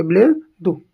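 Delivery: "बिल्ली दू" split as bil-le, pause, doo; careful pronunciation. Shown as a demonstration. Teacher reminding students of the word, "बिल्ली दू" in two separated parts. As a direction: set "दू" apart after a short pause in "बिल्ली दू". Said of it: "ध्यान रखेंगे".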